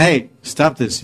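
a touch of anger in a drawn-out command; angry guru. Retold or imitated. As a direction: imitate a guru's sharp reprimand. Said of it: "Prabhupada got very angry".

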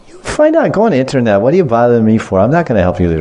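half-playful annoyed refusal; acted irritated brush-off. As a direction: brush off a pesky request. Acted brush-off of homework plea.

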